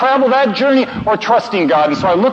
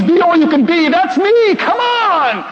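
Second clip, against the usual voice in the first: marine-style zeal; 12 semitones higher than usual. Retold or imitated. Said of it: "sounds like the Marines".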